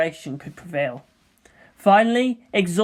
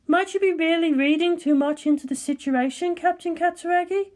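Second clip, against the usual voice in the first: composed scientist, pitched higher; cool, measured colleague; Ritsuko's voice; 11 semitones higher than usual. Acted. Ritsuko congratulating Misato, composed and higher.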